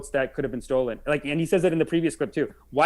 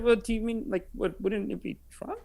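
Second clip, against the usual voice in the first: soft, higher, timid mock question; apologetic tiptoe; 5 semitones higher, 8 dB quieter than usual. Host mimics guest tiptoeing to Trump, apologetic. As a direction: tiptoe into it, small and gentle. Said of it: "He apologetically, kindly tiptoes".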